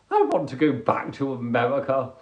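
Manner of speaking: normal talking voice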